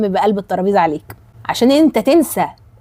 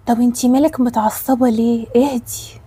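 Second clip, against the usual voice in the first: mock calming quote. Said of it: "دايمًا تلاقيها بتقولك".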